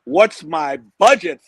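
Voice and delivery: slow, boastful buyer showing off; cocky swagger. Retold or imitated. Guest acting Archie the buyer answering the salesman, cocky. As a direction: brag like you own the lot. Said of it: "And you say".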